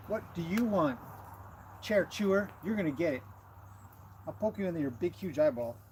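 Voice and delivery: cheeky horse voice. Acted. Voicing horse's rude comment.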